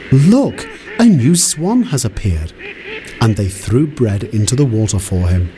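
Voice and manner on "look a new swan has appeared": high, bright excited call; children calling out. A narrator's reading. Children on the shore calling excitedly about the swan. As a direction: call out to the others across the lake.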